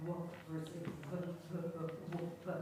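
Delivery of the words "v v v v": v, v, v with teeth clearly on the lip; exaggerated v sounds. Shown as a demonstration. Teacher contrasting v with w, exaggerated buzz. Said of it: "getting the visual going on there".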